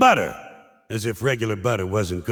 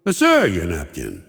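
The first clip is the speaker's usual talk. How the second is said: gentle waiter reminder; 8 semitones lower than usual. Retold or imitated. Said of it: "gently reminds you".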